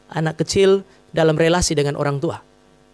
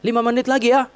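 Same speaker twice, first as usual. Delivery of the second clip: mild mock yell of a child, higher pitch; anak berteriak; 4 semitones higher than usual. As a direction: call out to dad, imitating a pleading child. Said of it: "dia akan teriak". (menirukan teriakan anak, nada agak tinggi)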